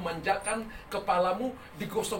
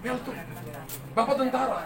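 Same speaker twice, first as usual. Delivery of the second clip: retold puzzled question; 4 semitones higher than usual. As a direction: mimic her baffled double question. Woman puzzled by his answer. (menirukan pertanyaan heran)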